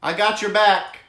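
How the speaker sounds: a tiny ant bravely promising help; little ant voice. Pretend. Tiny ant telling Trevor it has his back, high squeaky bravado. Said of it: "Little ant crawling in and saying".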